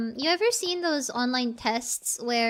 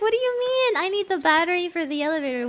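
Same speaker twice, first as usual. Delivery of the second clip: retold bafflement; 3 semitones higher, 3 dB louder, faster than usual. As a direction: act out your own baffled reaction. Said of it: "I was like".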